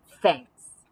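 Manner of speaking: lightly voiced gruff bear; a hint of a shy bear; low bear voice.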